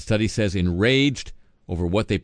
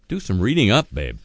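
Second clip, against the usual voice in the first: sassy put-down; 4 dB louder than usual. Pretend. Host talks back to Howard.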